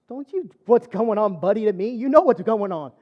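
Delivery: mock-indignant panic, throwing the question back; freaking out. Patient on operating table snaps at anesthesiologist, freaking out. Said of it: "I start freaking out on the operating table".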